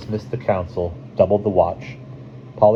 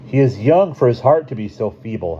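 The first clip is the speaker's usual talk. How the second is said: louder, higher-pitched protest; 6 semitones higher, 5 dB louder than usual. A narrator's reading. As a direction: protest in a raised character voice. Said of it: "a man wearing a red fox skin protested".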